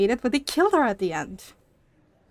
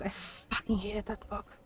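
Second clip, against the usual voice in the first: much softer, half to herself: "I fucking hated that book"; quiet muttered repeat; 3 semitones lower, 13 dB quieter than usual. Real, not acted. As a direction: drop the voice and mumble "I fucking hated that book" under the breath.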